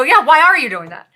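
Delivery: mock irritated parent; bristling reply. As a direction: react as if bristling at her. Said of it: "reactive in that moment and bristle".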